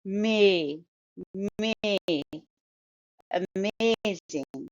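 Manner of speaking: MAY on its own, then slow Amazing leaning on MAY; stressed second syllable. Shown as a demonstration. Teacher drilling Amazing, slow with second syllable stressed. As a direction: stretch the stressed middle of Amazing. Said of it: "you stress the second syllable".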